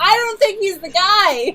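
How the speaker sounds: high, slow, hammed-up declaration; mock loud announcement. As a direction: ham it up, loud and drawn out. Mocking Ben's obvious turnaround.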